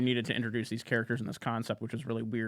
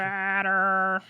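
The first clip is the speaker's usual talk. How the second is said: mock sobbing wail, pitched up; crying impression; 7 semitones higher, 4 dB louder than usual. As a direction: blubber the name like you're weeping. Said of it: "can you do your crying impression".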